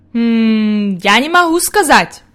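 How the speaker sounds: lightly acted old grandfather; pondering grandfather. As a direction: hum thoughtfully before admitting doubt. Grandfather answers Heidi after thinking.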